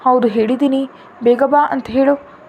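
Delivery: put-on a mild pouting child's plea; lightly sulking little boy; sulky child. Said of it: "ಮುಖ ಸಣ್ಣದ್ ಮಾಡ್ಕೊಂಡು ಹೇಳ್ದ".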